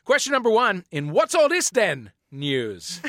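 hammed-up British bobby voice, slowed right down; a lightly put-on British constable accent; mock British. Shown as a demonstration. Host opening a quiz question in a mock British accent. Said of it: "I don't know how convincing I was there".

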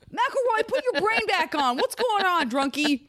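high, bossy team captain; bossy dictator. Pretend. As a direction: bark orders at the team. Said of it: "a dictator who's like".

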